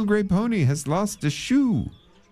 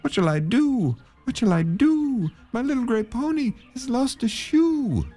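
very high, wailing despair; a man stranded in the road; sighing lament. Acted. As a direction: wail it, near tears. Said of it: "sighing and saying".

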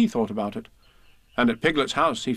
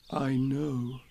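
softer, humble Pooh voice; meekly admitting it; humbly; 2 semitones higher, 5 dB quieter than usual. A narrator's reading. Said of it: "said Pooh humbly".

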